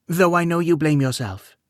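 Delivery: gentle queen voice. A narrator's reading. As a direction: speak as a weary, kindly queen.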